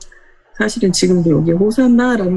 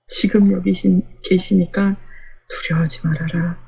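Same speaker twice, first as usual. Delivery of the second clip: reassuring prophecy. Acted.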